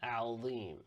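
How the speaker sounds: Rabbiyal Azim stretched slowly as one flow; slow Arabic liaison; slow joined recitation. Shown as a demonstration. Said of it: "So we're saying Rabbiyal".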